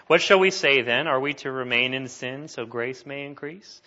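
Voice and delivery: emphatic reading. Acted. Reads scripture question aloud forcefully.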